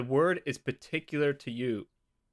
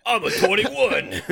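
louder, higher, laughing through it; real laugh while bragging; laughing brag; 8 semitones higher, 9 dB louder than usual. Real, not acted. Player laughing as he boasts his level.

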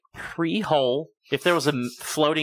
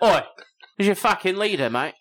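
raised-pitch, pushy Cockney; Cockney accent; 3 semitones higher than usual. Acted. Alien demanding Earth's leader, pushy Cockney. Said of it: "came down and had a Cockney accent".

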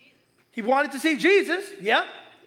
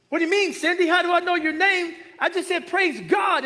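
playful mock innocence; 6 semitones higher, 3 dB louder than usual. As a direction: act all innocent. Mentor teasing the startled clerk.

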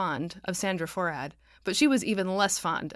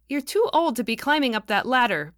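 higher, louder chirp of concern; piping up; 5 semitones higher, 6 dB louder than usual. A narrator's reading. Hazel piping up to George about the ladder, higher. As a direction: pipe up to scold him kindly. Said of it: "piped up Hazel Quinn".

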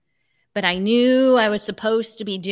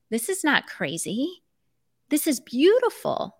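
beaming reassurance; 6 semitones higher than usual. Retold or imitated. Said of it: "with a big smile".

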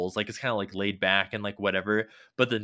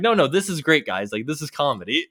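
high, loud, forced cheer; squeaky puppet voice, much higher and louder; insistent sock puppet; 5 semitones higher, 6 dB louder than usual. Retold or imitated. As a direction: push it like a puppet pretending he's fine. Puppet denying he is mad.

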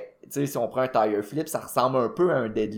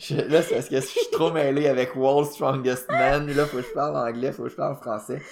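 laughing explanation; 4 semitones higher, 3 dB louder than usual. Real, not acted. Laughing at own language mix-up.

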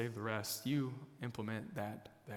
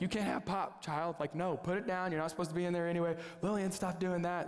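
retold parental scolding; 4 semitones higher than usual. Retold parent scolding his children.

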